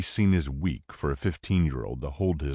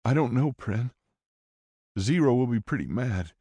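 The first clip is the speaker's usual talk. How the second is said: put-on teen boy voice; 7 semitones higher than usual. A narrator's reading. Coda voiced.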